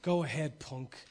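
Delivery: low whispered threat, Make my day; Clint Eastwood impression. Preacher doing Dirty Harry's line, whispered low menace. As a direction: breathe it out low, squinting like Clint. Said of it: "squint your face up like Clint".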